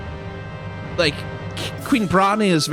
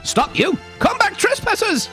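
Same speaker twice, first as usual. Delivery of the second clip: guard shouting. Acted. Guard chasing intruders.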